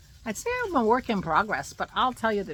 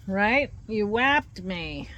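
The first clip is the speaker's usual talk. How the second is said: sickly sweet; 3 semitones higher, 6 dB louder, much slower than usual. Acted. Scolding the dog playfully.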